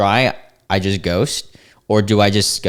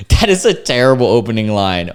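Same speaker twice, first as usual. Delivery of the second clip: laughing; 4 dB louder than usual. Real, not acted. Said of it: "I'm kinda laughing at this dude's".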